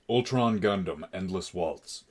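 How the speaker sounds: loud and careful for the assistant; repeating to voice assistant. Real, not acted. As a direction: say 'Ultron Gundam, Endless Waltz' loud and clear for the device. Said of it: "Okay, Google".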